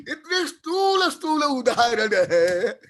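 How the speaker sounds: laughing through the words. Real, not acted. Teacher amused by his own obvious examples, laughing. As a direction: chuckle while drawing out the words.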